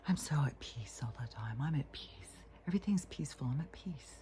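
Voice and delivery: very soft, whispered put-on serenity; mock peaceful. Acting at peace to everybody, mock peaceful whisper. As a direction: imitate blissful peace in a hushed, airy voice. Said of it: "acting to everybody like".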